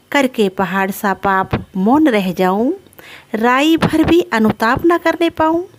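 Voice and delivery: recite, lifting the second half; verse recitation. Acted. Kaikeyi voicing remorse for her sin, recited verse.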